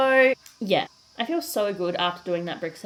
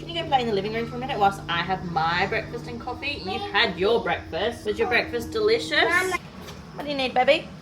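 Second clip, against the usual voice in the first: high, louder mum voice; 5 semitones higher, 6 dB louder than usual. Real, not acted. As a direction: coax the little ones gently. Mum talking to her girls.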